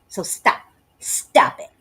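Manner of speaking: whispered scolding to stop it. Acted. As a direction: hush it out, telling them to quit. Telling writer to quit.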